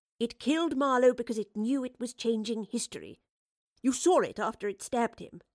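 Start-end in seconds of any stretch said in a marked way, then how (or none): none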